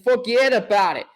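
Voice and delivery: put-on New York accent, dropping the r. Host riffing on the Rangers in the playoffs, New York accent. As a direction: say it like a New Yorker. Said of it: "I'll say in my New York accent".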